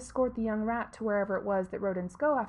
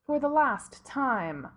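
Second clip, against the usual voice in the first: snapping; 3 semitones higher, 4 dB louder, slower than usual. Acted. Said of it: "Severus snapped".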